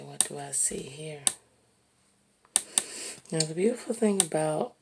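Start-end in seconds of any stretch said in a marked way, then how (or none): 0.0-1.2 whispered question to herself. Shown as a demonstration. Artist turning the canvas and looking again, whispering. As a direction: breathe the question without voice. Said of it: "And you say".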